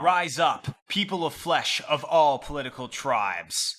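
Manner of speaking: fiery revolutionary speech. Acted. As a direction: rouse the crowd to rise. Rallying call to flesh supremacists.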